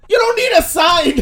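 loud, high shout. Real, not acted. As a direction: yell it right back. Shouting back at friend.

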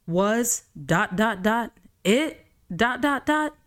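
high mocking dot dot dot. Real, not acted. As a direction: send up the dramatic pause. Mocking the ellipsis.

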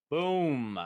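loud high boom; triumphant shout. Real, not acted. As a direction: shout it like a mic drop. Punchline exclamation.

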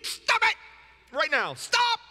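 high-pitched, loud mock outburst; acted yell. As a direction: scream the order at someone maddening. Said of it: "and yell".

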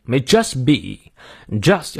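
"just" stressed in a slow phrase. Shown as a demonstration. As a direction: lean slowly on "just". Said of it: "just要重读".

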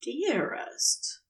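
quiet, falling "Dearest?" in disbelief; stunned repeat. Acted. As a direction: echo "Dearest?" softly, falling, thrown. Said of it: "Crowley swallowed".

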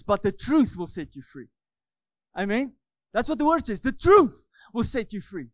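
emphatic preacher driving the point home; building, insistent pulpit delivery; forceful preaching. Real, not acted.

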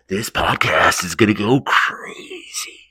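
whisper. Acted. Teasing the podcast, hushed.

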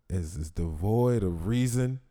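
slow, grand announcer read; dramatic announcer voice. Acted. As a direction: announce it like an epic trailer.

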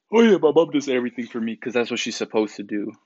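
lightly voiced entitled girl, breezy; mock spoiled girl. Mimicking the spoiled influencer, a light mocking parrot. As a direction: tease her by parroting her smug line.

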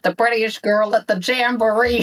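put-on high, bright British girl line. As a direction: chirp it like a British schoolgirl. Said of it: "Now I can say again".

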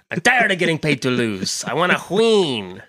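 lightly voiced bad celebrity impression; a hint of a hammed-up movie star, drawn-out last word; Jack Black. Movie star bursting into a podcast, lightly impersonated. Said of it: "was that Jack Black in the hallway".

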